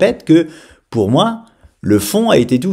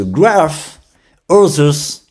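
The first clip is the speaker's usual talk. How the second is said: exaggerated French accent; 3 semitones higher, much slower than usual. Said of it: "je fais exprès d'exagérer mon accent".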